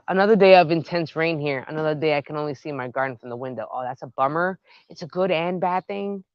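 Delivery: ordinary talk, nothing marked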